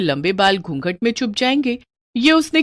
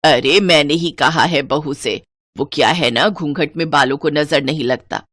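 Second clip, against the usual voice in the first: put-on lower-pitched older woman explaining; justifying mother-in-law; 4 semitones lower than usual. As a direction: brush off the guest's curiosity firmly. Voices mother-in-law explaining herself.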